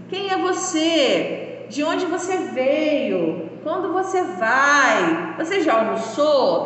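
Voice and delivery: slow, clear question intonation; question tune. Shown as a demonstration. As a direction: ask each question slowly. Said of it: "Tem entonação diferente às frases".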